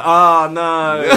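high loud mock squeal of protest; mock protesting victim.

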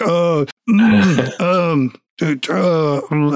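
flustered, halting filler noises; freezing up. Acted. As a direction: flounder wordlessly after forgetting what to do. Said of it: "You're like".

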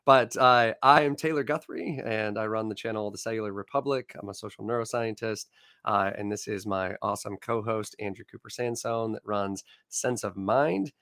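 croaky voice getting over laryngitis; rough, frog-like hoarseness; hoarse voice. Real, not acted. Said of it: "so I kinda sound like a frog today".

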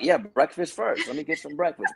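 can't hide the joy; overjoyed new hire laughing at free breakfast; giddy delight. Retold or imitated. Giddy shout then laugh.

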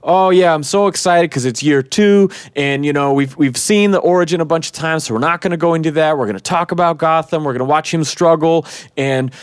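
imitating a director geeking out, quick and nonstop; excited rambling. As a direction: rattle on eagerly like a kid describing a comic. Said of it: "going on and on and on like an excited kid".

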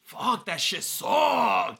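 disgusted groan. Retold or imitated. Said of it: "I'm like".

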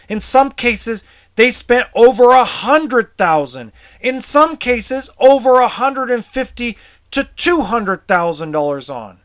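real outrage, voice up and pushing; angry. Real, not acted. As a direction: let the fury out, pitch climbing. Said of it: "I get really emotional".

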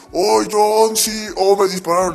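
falsete agudo y quejumbroso; un cantante. Retold or imitated. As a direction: imita al herido con voz aguda. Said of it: "John Lennon dice". (cantante imitado con voz aguda)

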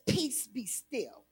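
very soft and slow, peace be still; soft and slow calm command; hushed command. Shown as a demonstration. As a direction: let the three words settle softly. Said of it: "Three words".

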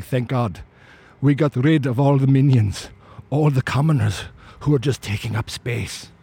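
lightly voiced villain relishing it; a hint of a pompous movie villain; bad guy voice. Elite in a mansion looking out over the emptied world, mildly villainous bad guy voice. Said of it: "that's my bad guy voice".

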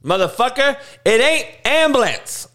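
ordinary talk, nothing marked

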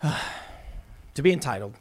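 slow, soft sighed "to be entitled"; sighing repeat. Real, not acted. Host lamenting entitled millennials, slow weary sigh. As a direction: let it sink in with a weary sigh.

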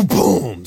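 imitated slam, whooshing boom; door slam noise. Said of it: "the door just goes".

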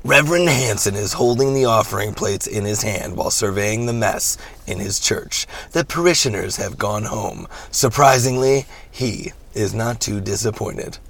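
measured movie-trailer style narration; dramatic script read with drawn-out phrase endings. Shown as a demonstration. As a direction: read the stage directions like a film narrator. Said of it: "my movie voice".

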